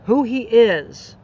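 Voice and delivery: real tears breaking through, slowing at the end; crying. Real, not acted. Telling the audience about her friend, fighting real tears. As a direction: let the tears take over the last words. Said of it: "here's the tears".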